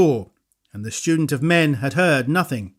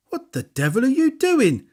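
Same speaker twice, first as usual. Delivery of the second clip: indignant outburst; angry; 10 semitones higher than usual. A narrator's reading. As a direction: demand it, offended. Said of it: "demanded the other angrily".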